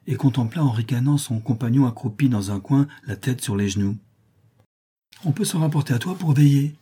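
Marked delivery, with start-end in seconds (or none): 5.2-6.7 raised, rough mocking cry; a sneering shout at the sleeper; rough exclamation. A narrator's reading. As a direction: shake him awake with a jeer. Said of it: "s'écria-t-il en le secouant avec rudesse".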